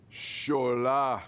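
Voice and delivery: stern dad calling his son from the next room; dad's voice. Retold or imitated. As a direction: call his name like a stern father. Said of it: "in a voice I can do pretty well".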